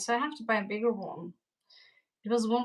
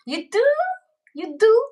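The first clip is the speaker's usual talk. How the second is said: mock Russian accent; 13 semitones higher, 13 dB louder than usual. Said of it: "maybe a Russian accent".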